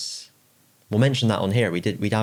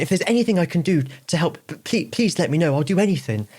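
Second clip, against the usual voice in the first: high, apologetic mock grovel; scary pub guy turned meek; 9 semitones higher, 4 dB louder than usual. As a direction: squeak out an overeager apology. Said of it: "he's like".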